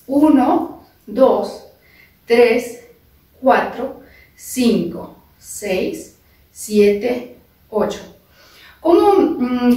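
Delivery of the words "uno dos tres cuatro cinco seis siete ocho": dance teacher counting eight steady beats. Shown as a demonstration. Teacher counting beats for students to step along. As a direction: count the steps out for the class.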